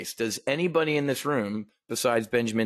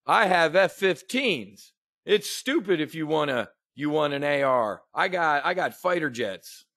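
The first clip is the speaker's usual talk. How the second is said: mocking Biden; 2 semitones higher than usual. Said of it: "He said it again".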